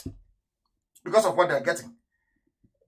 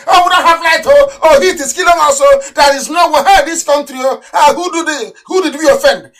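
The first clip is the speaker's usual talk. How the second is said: higher, louder mock lament with oh's; mock whining complainer; 5 semitones higher, 4 dB louder than usual. Mocking the people who complain about no light, whiny lament. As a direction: mimic the moaning citizens, hammed-up.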